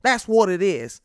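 loud and high, bragging hard; loud, fast Southern-flavoured brag; loud pride. Shown as a demonstration. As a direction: boast it out loud to the fans. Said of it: "I'm saying that with some pride".

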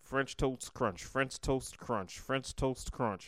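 slow, deliberate tongue twister; intense concentration. Real, not acted. Taking on the three-times challenge, slow and concentrated. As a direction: measure out every word with care. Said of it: "had to close his eyes and concentrate".

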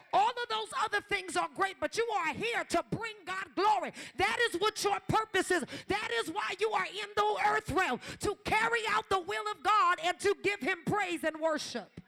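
rising preacher cadence, pushed hard; fiery preaching. Acted. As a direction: preach it home to the room. Preaching climax on purpose.

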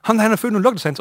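doctor loudly summoning the nurse; calling out. Acted. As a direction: call a colleague in from the next room. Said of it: "så kalder han på sygeplejersken".

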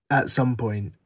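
burp slipping into the words. Real, not acted. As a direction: talk through a small burp. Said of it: "sorry, that was an audible burp".

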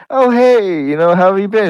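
high-pitched, overexcited dog greeting; eager dog. Acted. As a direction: greet them like a thrilled, excitable dog. Acting out an over-friendly dog.

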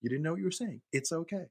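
high, soothing mom voice; calming mother. Retold or imitated. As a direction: imitate comforting an upset child. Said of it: "having to calm him down".

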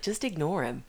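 dismissive. Retold or imitated. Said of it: "she rolled her eyes and was like".

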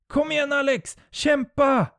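loud, high cheering yell; cheering shout. Acted. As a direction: cheer him on at full voice. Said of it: "Vi hejar och hoppar". (högljutt hejarop)

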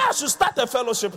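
a hint of a keen new idea; lightly voiced eager member. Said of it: "You say".

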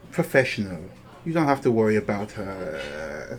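condescending rival, mildly sneering; obvious sneer. Acted. Rival belittles Hal's new teammates, sneering. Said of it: "a fully obvious sneer".

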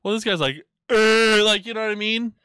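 mock the guy in a shrill squeak; high mocking voice.

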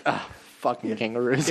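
mock resigned, offhand sigh; casual. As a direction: toss it off like it happens every day. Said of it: "so casually, he's like".

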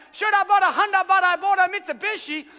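high, loud mock ecstatic cry; mock yelling in tongues. Worshipper yelling out over the preacher, hammed-up. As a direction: yell it out as if in tongues. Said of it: "yelling out".

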